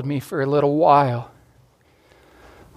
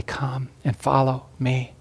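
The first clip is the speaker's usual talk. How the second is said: softer, slow and tender call; gentle, quiet invitation; 5 dB quieter, slower than usual. Acted. Jesus quietly calling the listener to follow, softer and slow. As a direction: say it gently and lovingly, slowly. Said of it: "says gently, lovingly, carefully, maybe even quietly".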